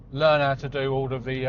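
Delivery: talking around a mint; words slightly muffled by a mint; mint in mouth. Real, not acted. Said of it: "I got m-, mint in my mouth".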